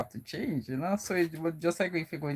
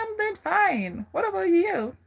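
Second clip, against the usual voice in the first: mock American accent; put-on American accent; 5 dB louder than usual. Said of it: "I said".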